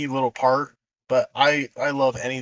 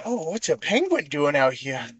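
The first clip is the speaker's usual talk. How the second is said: put-on drunk Billy Madison; 3 semitones higher than usual. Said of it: "He's all".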